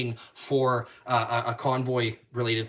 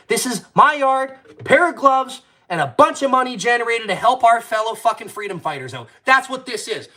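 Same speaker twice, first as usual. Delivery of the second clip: loud, high, hammering out each rule; real fired-up shouting of the house rules; fired-up shouting rant; 11 semitones higher, 8 dB louder than usual. Real, not acted. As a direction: yell the rules like a bouncer laying down the law. Ranting his strict fight rules.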